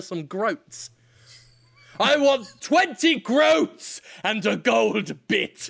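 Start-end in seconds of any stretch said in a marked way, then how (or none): 2.0-5.7 slow, higher medieval demand; old-fashioned landlord. Pretend. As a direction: demand coin like an olde lord. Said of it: "the more old-fashioned a landlord you become".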